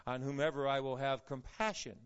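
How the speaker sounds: measured, solemn Bible reading; scripture reading. Acted. Reads the scripture text aloud.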